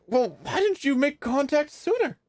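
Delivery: high, pleading questioning; distressed relative at a reunion; acted upset question.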